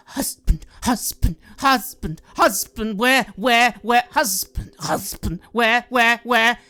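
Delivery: loud, calling, broken-machine voice; rasping, repeated calling for husband; raspy construct wife. Acted. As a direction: rasp it out, searching for her husband. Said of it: "sort of very raspy fashion".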